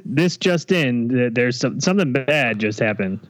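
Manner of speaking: breaking news. Shown as a demonstration. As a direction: announce it like a news flash. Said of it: "couldn't we do something like this".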